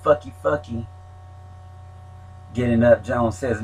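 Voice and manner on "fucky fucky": high mocking Mexican accent chant; mock Mexican accent taunt. Mexicans get rowdy, yelling.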